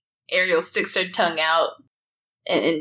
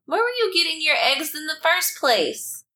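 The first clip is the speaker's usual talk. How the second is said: questioning; 12 semitones higher than usual. Acted. Player voices question, high far.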